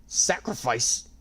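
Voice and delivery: slow shocked squeak. A narrator's reading. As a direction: squeak out in alarm. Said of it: "Rika squeaked".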